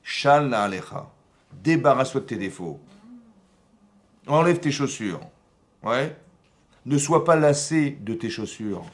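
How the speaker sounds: lightly voiced divine order; God's command. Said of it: "Hachem, il dit à Moshe".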